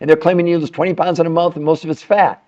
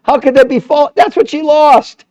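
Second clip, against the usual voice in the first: mock disbelief; 9 semitones higher, 6 dB louder than usual. Mocking a diet claim.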